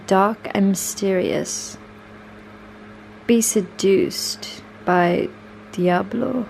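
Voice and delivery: slow, deliberate read-aloud of a wine blurb; dramatic label reading. Acted. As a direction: read it out like a seductive wine advert, lingering on the phrases.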